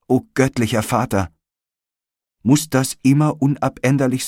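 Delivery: desperate appeal, pitched high and forceful; impassioned cry. A narrator's reading. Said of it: "schrie Lygia".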